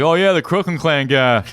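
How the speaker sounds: laughing through the line, slow; laughing quote. Retold or imitated. Retelling the shop owner's remark through a laugh. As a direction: giggle while imitating Forrest.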